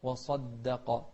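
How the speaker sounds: very slow وصدق with a full, dark ص; heavy saad. Shown as a demonstration. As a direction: draw out وصدق, thick on the ص. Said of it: "شوف الصاد".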